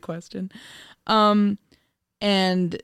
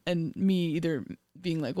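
ordinary talk, nothing marked

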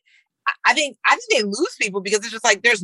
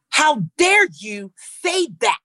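mock overdramatic line reading, a bit slow; lightly overenunciated stage voice; fake acting voice; 4 semitones higher, slower than usual. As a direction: ham it up like a stiff young actor. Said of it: "they put on an acting voice".

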